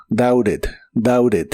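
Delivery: "doubted" said as "daured". Shown as a demonstration. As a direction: model "doubted" with a tapped R for T. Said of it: "este verbo como R". ("doubted" con la T como R)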